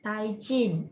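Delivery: Thai Jin with jin clipped and falling; careful Thai Jin, Japanese style; Japanese reading. Shown as a demonstration. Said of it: "bahasa Thailand".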